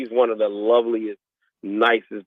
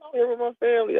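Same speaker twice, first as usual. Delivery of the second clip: mock explanation; faster than usual.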